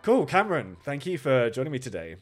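hoarse, sore-throat rasp; croaky voice. Real, not acted. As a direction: speak through a recovering sore throat. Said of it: "please excuse my croaky voice".

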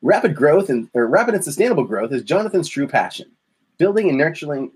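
radio voice. Shown as a demonstration. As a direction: lean in and read it like radio. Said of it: "my radio voice for this one".

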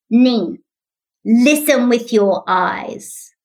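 the word eyes drawn out and slowed right down; slow, deliberate child's plea. Retold or imitated. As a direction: spell it out slowly like a small child. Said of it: "he said this".

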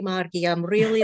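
imitating a Scottish mum; Scottish accent. Daughter quoting her proud mum, in a Scottish accent. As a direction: do Mum's affectionate Scottish accent. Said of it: "she said it in a Scottish accent".

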